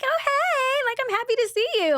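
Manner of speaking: very high, fast gushing hello; fake happy greeting. Showing how she did not greet her rival: high and fast. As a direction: gush a bright fake welcome, way up high. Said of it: "I was not like".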